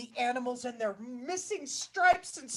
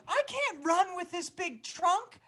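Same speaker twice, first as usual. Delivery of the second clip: complaining animal; 7 semitones higher than usual. Acted. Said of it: "One of them was complaining".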